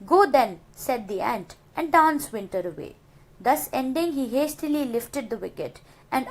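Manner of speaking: steady recited verse; teacher reading a poem to the class; poem recitation. Shown as a demonstration. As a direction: read the lines as a poem. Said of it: "Now the third stanza".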